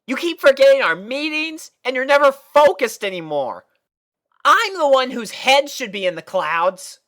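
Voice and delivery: high, loud annoyed filly; annoyed Scootaloo. A narrator's reading. Scootaloo complaining to Sweetie Belle, annoyed. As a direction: scold your friend for zoning out.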